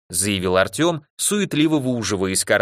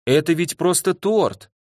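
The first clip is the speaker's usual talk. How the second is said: higher, slower plea with reproach; reproachful; 6 semitones higher than usual. A narrator's reading. Igor protesting that it is only cake, reproachful. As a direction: stretch it into a hurt protest. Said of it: "сукоризной посмотрел на нас Игорь".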